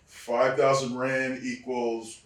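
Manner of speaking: loud, slow, drawn-out announcement; milk the reveal of the fine like a showman; agent's mock ceremony. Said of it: "Gerald Briscoe goes".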